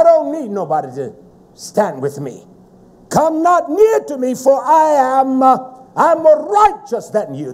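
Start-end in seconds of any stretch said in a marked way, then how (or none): 3.1-7.5 raised, declaimed scripture quote; forceful preaching. Acted. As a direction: proclaim it like a self-righteous boast.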